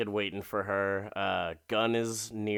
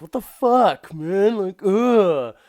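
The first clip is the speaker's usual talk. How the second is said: loud, high-pitched mock outrage; exasperated protest; 9 semitones higher, 10 dB louder, slower than usual. Man protesting after she stops him, exasperated and loud. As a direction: whine loudly in protest, ending on a groan. Retold man's protest at being stopped.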